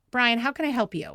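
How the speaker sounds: mock-polite with annoyance underneath; sweetly sarcastic, barely hiding irritation; annoyed sarcasm. Wife to husband bringing the crying baby, sarcastic. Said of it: "I was so annoyed".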